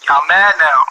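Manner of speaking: "mad" leaned on, falling smugly; smug taunt. Real, not acted. To chat, rubbing in that viewers are mad: smug.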